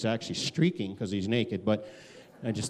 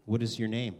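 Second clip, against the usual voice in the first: calm question. Retold or imitated. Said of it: "I can just see him calmly answering".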